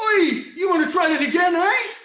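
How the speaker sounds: loud, fast mocking bully with a laugh; bully taunt. Bully over fallen boy, loud mocking jeer. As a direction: jeer it down at him.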